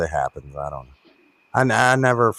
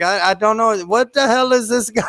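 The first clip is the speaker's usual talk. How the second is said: higher-pitched, puzzled outsider; mock bafflement; 11 semitones higher, 3 dB louder than usual. Minnesotans hearing a Kentucky talker, mock bewilderment. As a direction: play a baffled listener. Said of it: "And they're like".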